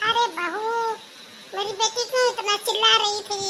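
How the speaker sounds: soothing mom who excuses her daughter, mildly played; lightly voiced old mother. Mother role in family skit. (हल्की सी बुज़ुर्ग माँ की आवाज़)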